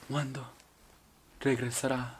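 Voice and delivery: a hint of a soap-opera heroine, swelling loud; mock telenovela drama. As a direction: pine dramatically for a lover at war. Dramatic pose with the flag.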